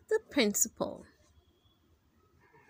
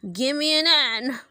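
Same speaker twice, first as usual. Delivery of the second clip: cheer shout; 3 semitones higher, 5 dB louder than usual. Acted. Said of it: "shouted the cheerleaders".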